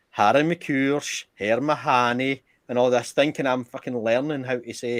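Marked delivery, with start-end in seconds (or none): 0.1-2.4 slow mock Gaelic gibberish; Harry McCoursh, Herr Mahoney sounded out slowly; fake Gaelic phrases. Proudly reciting fake Gaelic to his friend, slowly. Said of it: "But I'm going".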